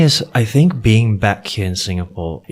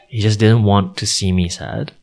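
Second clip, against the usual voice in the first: ordinary delivery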